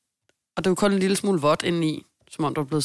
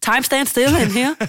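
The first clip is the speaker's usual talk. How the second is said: mock exasperation; 7 semitones higher, 6 dB louder, slower than usual. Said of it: "I don't know, time is".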